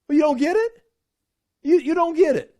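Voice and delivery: sharp, exasperated you-don't-get-it; exasperated rebuke. Retold or imitated. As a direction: scold them for missing the point. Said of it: "he's snorting at them".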